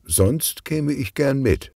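put-on young niece, wistful; girl's voice. Bonnie wishes she could come along, girlish voice.

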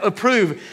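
"Approve" spoken alone with a falling close; word set apart. Shown as a demonstration. Pastor singling out "Approve" for note-takers. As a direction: isolate "Approve" so it sinks in. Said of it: "underline that word approve".

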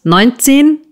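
neunzehn shot up high in disbelief; startled outburst. A narrator's reading. The uncle, hearing the nephew's age, snaps up in disbelief. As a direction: flare up in shocked disbelief. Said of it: "fuhr Ralf auf".

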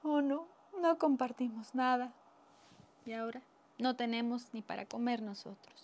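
mildly mournful, acted lament; sad regret. Rich diners regretting they did not share, mildly sad. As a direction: lament it with understated sorrow. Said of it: "Muy tristes, dijeron".

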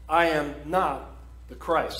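firm, weighted I am not the Christ, with not pressed hard; a preacher hammering home the denial; emphatic denial. Shown as a demonstration. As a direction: stress not and land the Christ with finality. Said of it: "So that's why I say emphatically".

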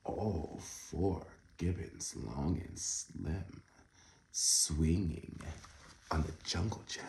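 hushed second reading; soft reread. Shown as a demonstration. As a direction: murmur the rhyme again gently. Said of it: "Oh my goodness".

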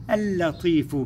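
اللطيف with one long doubled L and final "u"; sun lam. Shown as a demonstration. Teacher presenting the word to pupils, sun lam. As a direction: linger on the L of اللطيف. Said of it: "لام شمسية".

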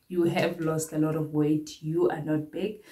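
breathless, short of air; out of breath. Real, not acted. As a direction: speak while winded. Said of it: "I'm feeling so out of breath".

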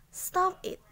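breathy whispered stop it; whispered command. Shown as a demonstration. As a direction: hiss stop it under your breath. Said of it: "teacher repeats it as whisper".

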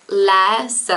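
lese said with open first e; Swiss German lese. Shown as a demonstration. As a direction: lese with the e like the a in cat, ending in a schwa. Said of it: "is pronounced like this".

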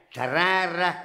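"Terrare" lifted upward; rising pitch. Acted. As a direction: take "Terrare" up like a music teacher counting time. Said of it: "met een terrare naar boven".

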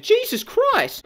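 drawn-out exasperation. Real, not acted. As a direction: stretch it out, fed up. Reacting in disbelief.

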